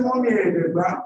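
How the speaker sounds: high mocking, rising to a loud shout; mock him, then throw him out; scornful then furious. Mother repeating the scene for her son, mocking then shouting.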